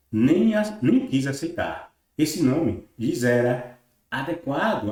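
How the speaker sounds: slow, emphatic reading of a text; formal read-aloud. Acted. Teacher reading the third source to viewers, formal read-aloud. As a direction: read it out with weighty, deliberate phrasing.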